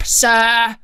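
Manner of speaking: loud, drawn-out snarl. A narrator's reading. Threatening someone addressed as sir, snarled. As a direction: snarl it with some force. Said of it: "he snarled".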